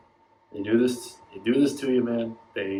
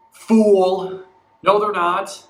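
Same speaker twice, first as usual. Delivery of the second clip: scoffing; 4 semitones higher, 6 dB louder, much slower than usual. Real, not acted. Fan scoffing at own hope.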